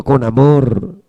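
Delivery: low, tender prompt; with love. Shown as a demonstration. Has congregation repeat the loving phrase.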